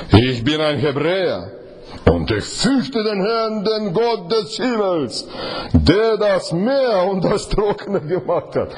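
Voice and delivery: slow, drawn-out and hesitant, with a slight laugh at the end; a slow, sheepish admission; hesitant confession. Shown as a demonstration. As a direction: say it haltingly, half embarrassed.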